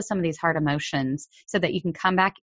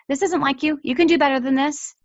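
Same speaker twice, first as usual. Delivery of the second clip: higher, firm insistence; firm demanding parent; 9 semitones higher, 3 dB louder than usual. Shown as a demonstration. Parent to misbehaving child, firmly demanding more. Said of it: "You demand it of them".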